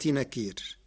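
نكير with the ya kept, nakiri; Warsh reading. Shown as a demonstration. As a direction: hold the ya in نكير. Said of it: "بإثبات الياء وصلا". (نكيري بإثبات الياء)

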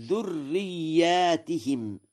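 ذرياتهم with long aa and ti-him, slow and high; plural with kasra. Shown as a demonstration. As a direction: stretch the aa in ذرياتهم, then say ti-him. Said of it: "على الجمع مع كسر التاء". (ذرياتهم بالألف وكسر التاء)

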